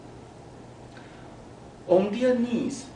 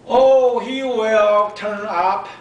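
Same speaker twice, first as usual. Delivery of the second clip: dismissive mom; 6 semitones higher, 9 dB louder, slower than usual. A narrator's reading. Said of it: "was all she said".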